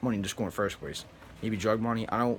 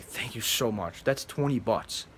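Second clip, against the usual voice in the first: sincere slow thanks; 4 dB quieter, slower than usual. Pretend. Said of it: "I would be like".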